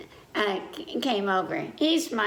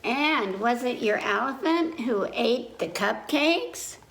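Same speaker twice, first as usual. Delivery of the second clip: grandma asking; 3 semitones higher than usual. Acted. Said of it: "Grandma asked".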